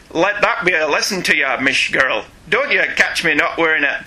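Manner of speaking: put-on botched Irish accent with a Scottish slip; bad Irish accent. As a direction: attempt an Irish accent and miss. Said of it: "Mine sounded like Sean Connery trying".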